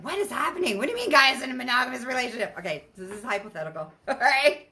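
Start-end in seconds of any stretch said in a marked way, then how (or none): 0.0-2.6 high, fast puzzled outburst; confused disbelief. Retold or imitated. Viewer baffled by the hypothetical, high fast disbelief. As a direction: blurt out baffled questions. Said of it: "If you're like".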